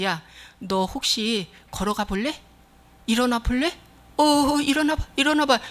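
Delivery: mock-gentle tentative suggestion; soft coaxing. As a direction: coax hesitantly, as if afraid to order. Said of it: "부드럽게 말하기 위해서".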